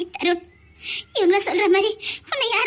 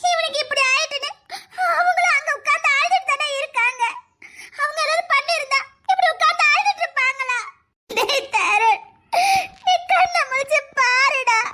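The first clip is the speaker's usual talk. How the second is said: tearful pleading; 3 semitones higher than usual. Acted. Defends mother, pleads with son.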